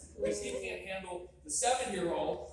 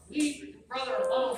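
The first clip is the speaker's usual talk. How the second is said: yelling dad; 6 dB louder than usual. Retold or imitated. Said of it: "yell at the child".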